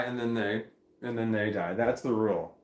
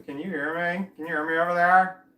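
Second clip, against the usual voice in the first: raised, higher voice calling across; half yell, pitched up; mild yell; 6 semitones higher, 6 dB louder than usual. Shown as a demonstration. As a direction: call out to a camera too far away. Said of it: "I need to yell or something".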